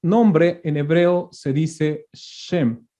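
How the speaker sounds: very slow, each word spaced for note-taking; slow teacher dictation of a definition. Shown as a demonstration. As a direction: spell it out slowly so they can write.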